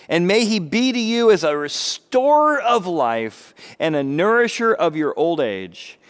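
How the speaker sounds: maidservants blessing. Retold or imitated. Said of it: "these are the maidservants talking to her".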